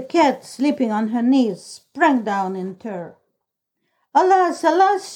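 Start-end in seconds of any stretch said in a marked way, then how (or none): 4.1-5.1 a high, hammed-up wail of alas; lamenting cry. A narrator's reading. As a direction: cry alas like an old woman throwing up her hands. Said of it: "she cried".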